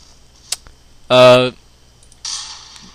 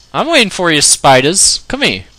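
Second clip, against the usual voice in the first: put-on taunting in a hammy British accent, pitched up; British accent impression; 5 semitones higher, 4 dB louder than usual. Gamer taunting the spiders, mock British accent. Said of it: "my best impersonation of a British person".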